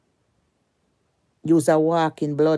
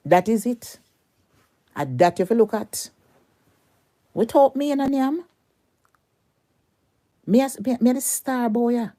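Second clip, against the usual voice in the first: boastful shout; 9 semitones higher than usual. Real, not acted. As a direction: crow that you're the star.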